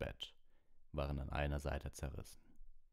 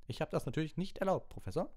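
high, loud offended protest; indignant; 13 semitones higher, 4 dB louder than usual. A narrator's reading. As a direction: protest in outrage to the professor. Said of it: "sagte Percy empört".

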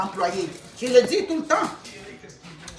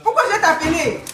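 indignation en riant; 5 semitones higher than usual. Retold or imitated. Répond à la femme de Laval.

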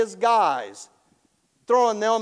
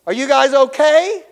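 loud, higher-pitched acted holler; 6 semitones higher, 9 dB louder than usual. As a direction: call in to people shut inside a furnace. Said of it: "and he hollers in".

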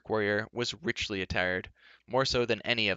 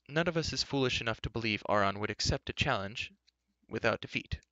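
raised, aged speechmaking voice; old enchanter, grave; 3 semitones higher than usual. Acted. Old enchanter recounts the enemy's defeat, grave.

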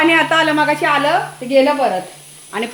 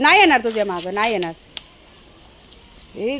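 usual speaking voice

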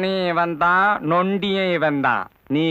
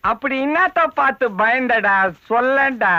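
raised-pitch, pressing question; insistent demand; 5 semitones higher than usual. Acted. Elder questioning frightened boy about what he saw, insistent. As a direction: press the boy hard for an answer.

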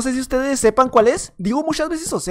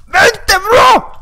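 loud, high call to fight; challenging shout; 9 semitones higher, 5 dB louder than usual. Real, not acted. Gamer daring an opponent to fight, loud challenging shout. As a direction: dare him to come over. Calling out an enemy.

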